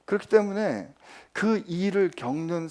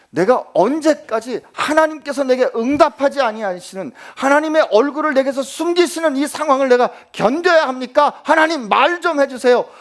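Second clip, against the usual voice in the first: crying out to God; 8 semitones higher, 10 dB louder than usual. Acted. Voicing a lament to God.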